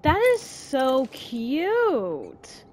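slow, whispered cooing. Real, not acted. Cooing at pet.

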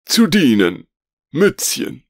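high, squeaky little gnome voice, eager; a tiny creature bowing at your service. A narrator's reading. Magister Mützchen introduces himself to Veronika, high and squeaky.

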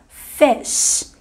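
"fish" com i breve e sh prolongado; i curto. Shown as a demonstration. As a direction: diga "fish" com vogal curta, quase "fesh". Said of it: "É um I só". ("fish" com i frouxo e chiado longo)

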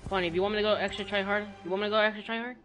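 teasing. Real, not acted. Teasing opponent who plays badly.

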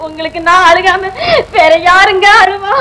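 slow, crying through the question; wife answers him through tears, slow and crying; tearful plea. Acted. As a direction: sob it out, drawn slow. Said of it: "ஏமா, ஏமா நீ அழுகுற?".

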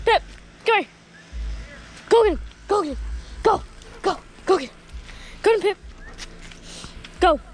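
calling out. Real, not acted. Urging the dog Pip to run to dad, shouting. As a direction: call the dog across the yard.

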